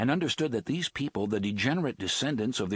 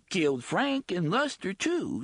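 dogged; 9 semitones higher than usual. Acted. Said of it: "she went on doggedly".

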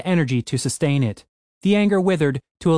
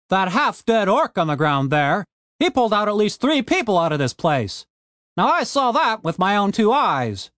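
a lightly voiced gruff dwarf, raised and fast; gruff Frank voice; 7 semitones higher than usual. A narrator's reading. Frank snapping at Tony the Elf, lightly raised gruff voice. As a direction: push back hard at the elf, brisk.

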